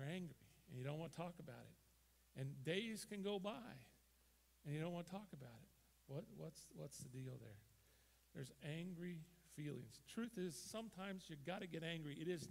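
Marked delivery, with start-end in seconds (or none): none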